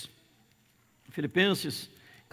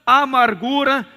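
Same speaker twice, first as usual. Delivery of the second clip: loud, high preaching read of the verse; fiery sermon reading; preaching scripture; 5 semitones higher, 6 dB louder than usual. Acted. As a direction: proclaim each vice to the congregation.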